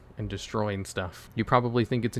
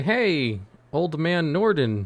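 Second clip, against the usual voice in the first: calling out; 5 semitones higher, 3 dB louder, slower than usual. Acted. Player hails Norden on arrival.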